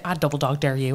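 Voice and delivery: imitated Derry dare; Derry accent. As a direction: do the Northern Irish schoolgirl's Derry catchphrase. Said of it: "was from up the north".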